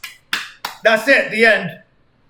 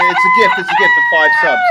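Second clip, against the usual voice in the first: very high squeak of joy; squeaky voice; 6 dB louder than usual. Pretend. Streamer squealing in a cartoon-high voice over finishing. Thanking for gift subs.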